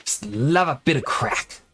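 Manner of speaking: attempted Irish lilt; poor Irish accent. Streamer who can't do Irish anymore, attempted Irish accent. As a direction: have a shaky go at Irish. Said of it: "I can't do my Irish accent anymore".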